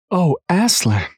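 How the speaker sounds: high, slow despairing cry. A narrator's reading. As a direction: plead in despair. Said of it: "in despairing voices".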